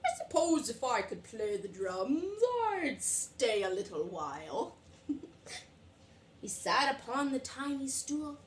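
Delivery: put-on lively read-aloud to little kids; storytime reading. A narrator's reading. Teacher reading a picture book to children, lively. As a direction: read it bright and animated for the class.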